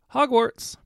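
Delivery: high ringing call. A narrator's reading. Witch stepping into the fire calls the destination loudly. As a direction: sing out the destination brightly. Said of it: "called out".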